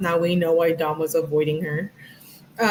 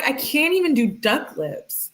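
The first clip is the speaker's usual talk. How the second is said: whiny mock voice; 7 semitones higher than usual. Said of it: "She's like".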